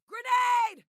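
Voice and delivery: urgent battlefield yell; warning shout. Acted. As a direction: bellow the warning to the squad. Combat warning call.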